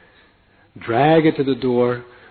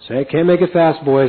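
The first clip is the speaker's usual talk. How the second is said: louder, higher cabbie refusal; 4 semitones higher, 5 dB louder than usual. Retold or imitated. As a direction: tell the passenger he can't hurry. Driver voiced.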